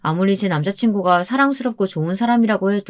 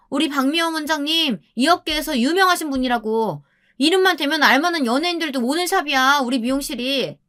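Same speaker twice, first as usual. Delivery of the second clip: proud boasting; 7 semitones higher than usual. Acted. Staff boasting about the owner.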